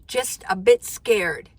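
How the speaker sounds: slow, deliberate read of the viewer's words; drawn-out, a little teasing; quoting a nervous viewer slowly; slow quoted line. Shown as a demonstration. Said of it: "Just a bit scared, huh?".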